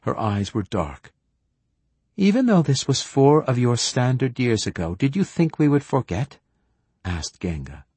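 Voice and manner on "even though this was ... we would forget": higher, accusing elder's voice; lightly voiced stern matriarch; stern old woman. Genga questions the returning consul.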